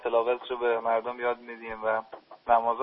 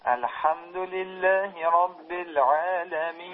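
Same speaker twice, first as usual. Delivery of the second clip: recitation on request; 5 semitones higher, much slower than usual. Shown as a demonstration. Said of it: "تلفظ بکنید".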